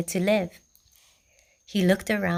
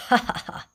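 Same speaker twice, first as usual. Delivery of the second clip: villain laugh; faster than usual. A narrator's reading. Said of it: "What a dinner I will have".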